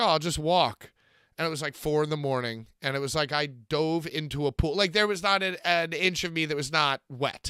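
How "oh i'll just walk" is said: ordinary talk, nothing marked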